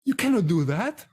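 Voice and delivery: lightly voiced mom telling her son off; mildly mock-stern mother lecture; scolding mom. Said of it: "and she goes".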